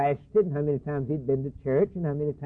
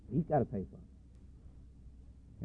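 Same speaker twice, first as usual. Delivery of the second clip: whisper; 5 semitones lower, 15 dB quieter, much slower than usual. Acted. Justice pronounces final sentence.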